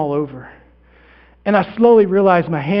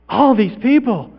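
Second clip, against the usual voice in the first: higher, slow wonder; drawn-out, less forceful marvelling; lingering amazement; 4 semitones higher than usual. Acted. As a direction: repeat it slowly, taking it in. Repeats it in lessening wonder.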